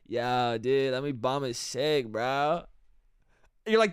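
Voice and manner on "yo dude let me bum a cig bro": low put-on townie drawl; lazy, low-pitched townie accent. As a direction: imitate a townie bumming a smoke. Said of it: "There's a townie accent".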